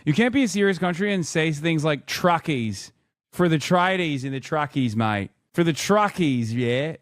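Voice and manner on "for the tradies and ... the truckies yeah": put-on broad Australian accent, hamming up Albo; mock Australian accent. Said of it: "it's Albo, mate".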